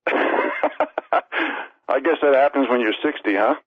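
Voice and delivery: slow, self-mocking chuckle through the words; laughing at himself. Real, not acted. Speaker joking to the crowd about his age, laughing slowly. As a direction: laugh it off, easy and unhurried.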